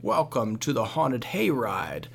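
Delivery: slow, lightly spooky witch's welcome. Retold or imitated. Hayride greeter welcoming the youth group, mildly spooky witch voice. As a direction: imitate a scary hayride greeter, drawn out. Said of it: "in a spooky, scary voice".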